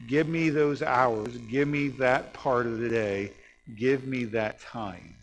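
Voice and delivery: slow, emphatic plea with drawn-out words; the Lord's appeal. Acted. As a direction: appeal slowly, weighting each phrase, easing off by the end. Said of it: "let the Lord say to us".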